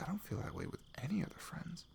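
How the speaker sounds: whispered inner thought. Retold or imitated. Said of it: "And I was like".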